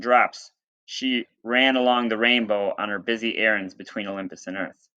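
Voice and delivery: reading a myth aloud to the class; teacher reading a storybook to students; story reading. Acted.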